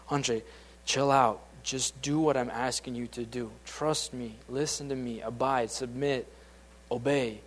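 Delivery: calm, gentle voice of God reassuring; steady and patient, like a father calming a son; God's reassuring voice. Retold or imitated. God calmly reassuring Andre to trust and obey him. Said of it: "all God was saying my whole life is".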